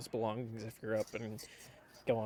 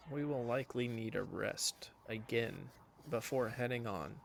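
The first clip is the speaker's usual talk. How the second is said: whisper; 6 dB quieter than usual. Acted. Character lowers voice mid-plan.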